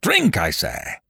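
high, furious command; shout. A narrator's reading. Monstrous king forcing the dwarf to drink, shouting. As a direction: order him in a high-pitched shout. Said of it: "shouted the monster".

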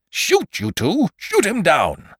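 high, loud, urgent command; shouted order. A narrator's reading. Wounded Holmes to his men, shouting. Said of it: "and addressing his men".

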